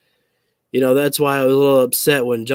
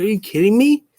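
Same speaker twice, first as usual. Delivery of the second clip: exasperated disbelief; 7 semitones higher, faster than usual. Retold or imitated. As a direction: throw up your hands: seriously?. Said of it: "I was like".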